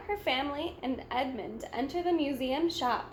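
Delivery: plain reading voice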